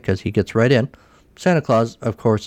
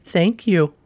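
put-on high, slow little baby voice; Baby Pack voice; 7 semitones higher than usual. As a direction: talk like a tiny baby Pac-Man. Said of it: "in his little Baby Pack voice".

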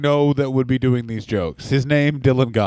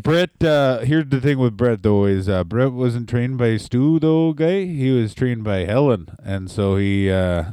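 Tully Blanchard impression; 2 semitones lower than usual. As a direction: ramble like a grumpy old Houston wrestler. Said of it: "Tully Blanchard".

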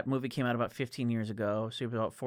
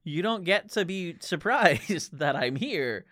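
sassy exasperation; 3 semitones higher than usual. Retold or imitated. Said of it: "Just him being like".

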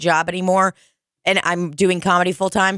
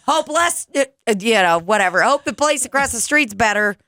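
sarcastic farewell; 5 semitones higher than usual. Retold or imitated. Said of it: "I go".

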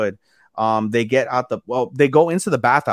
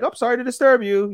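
much higher-pitched imitation of an intruder; mock embarrassed apology; 11 semitones higher than usual. Retelling two girls interrupting the couple, in a high, apologetic mimicry. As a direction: pipe up like someone who walked in on a couple. Voicing girls who walked in.

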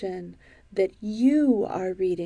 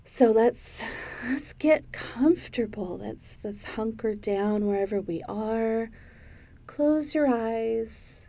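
calm, lightly guided relaxation; sleep story intro; 6 dB quieter than usual. Acted. Host settling listeners down for a silly sleep story, calm guidance. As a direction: ease listeners gently into a bedtime tale, with long pauses.

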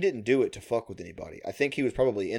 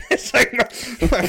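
slow, high, laughing words; 12 semitones higher, 5 dB louder, slower than usual. Real, not acted.

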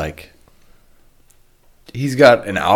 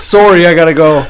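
imitated Canadian accent, a bit louder; 4 semitones higher, 5 dB louder than usual. Mocking a friend's accent from the golf game, imitated Canadian. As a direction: put on a Canadian "sorry". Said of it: "did you hear his accent".

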